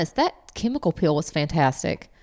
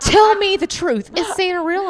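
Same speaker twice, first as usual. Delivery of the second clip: daughter's plea, laughing; 11 semitones higher, 5 dB louder than usual. Retold or imitated. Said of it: "Landry goes".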